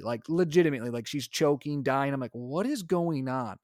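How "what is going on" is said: retold annoyance, drawn out slowly; slow, mildly exasperated question; annoyed. Dad baffled by his choking-sounding baby, annoyed. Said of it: "I'm starting to get annoyed".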